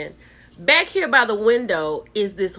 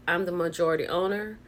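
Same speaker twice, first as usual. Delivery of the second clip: a cool, unbothered statement, softer; calmly; 3 semitones lower, 6 dB quieter than usual. Retold or imitated. Owner tells her partner who's boss, calmly. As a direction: lay down the law without raising the voice.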